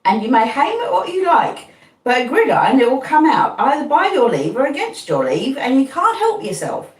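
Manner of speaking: simple Joe laying down the law; Joe's voice. A narrator's reading. Joe continuing.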